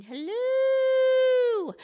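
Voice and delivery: high, loud, sing-song greeting; cheery hello. Retold or imitated. Woman with a kerosene lamp greets the lost group, high and loud. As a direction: call it out bright down the hill. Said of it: "African woman ... going".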